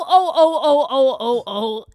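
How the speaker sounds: loud string of ohs, stepping down; loud, repeated mock oh-oh-oh; talking scale imitation. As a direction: imitate a complaining scale, loudly. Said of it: "wenn die so spricht und sagt so".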